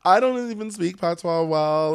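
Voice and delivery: loud, slow self-mocking admission; exasperated confession. Real, not acted. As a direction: throw up your hands at yourself.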